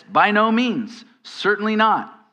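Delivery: firm, emphatic refusal; emphatic denial. Retold or imitated. Preacher giving Paul's answer to the congregation, emphatic. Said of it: "the most emphatic way of saying it".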